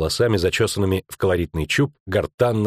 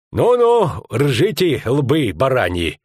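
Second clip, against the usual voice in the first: sharp, higher, louder snarl; barked insult; 4 semitones higher, 4 dB louder, much slower than usual. Acted. Skomlik snapping at the laughing bounty men, angry bark. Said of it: "рявкнул Скомлик".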